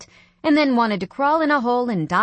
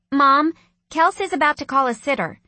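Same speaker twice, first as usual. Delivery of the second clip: tattling little sister, higher and louder; sing-song telling on a sibling; tattletale voice; 6 semitones higher, 6 dB louder than usual. A narrator's reading. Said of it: "in a tattletale voice".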